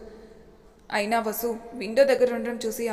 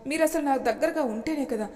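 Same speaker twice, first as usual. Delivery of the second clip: tearful; 4 semitones higher, 4 dB louder than usual. Acted. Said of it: "కంటి నిండా నీళ్లతో అంది".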